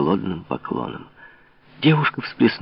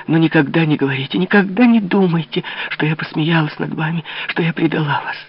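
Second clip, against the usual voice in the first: high, fervent declaration, whispers at times; passionate confession; 8 semitones higher than usual. A narrator's reading. Louise declaring her love to the king, passionate. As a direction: pour out her love with fervor. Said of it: "увлекаемая своим неистово пылким чувством".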